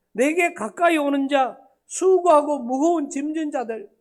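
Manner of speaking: scripture recited through tears, half-acted; mock tearful plea. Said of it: "그걸 하면서 울어요".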